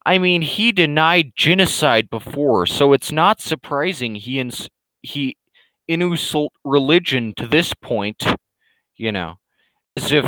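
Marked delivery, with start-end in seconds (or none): 0.1-8.2 raised, mocking voice of the troll; a lightly mocking impression of the troll; mocking quote. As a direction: sneer it out in his voice. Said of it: "He says".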